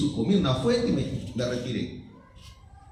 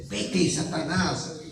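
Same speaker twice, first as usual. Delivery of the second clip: slow command; much slower than usual. Acted. Repeats Jesus' rebuke, slower.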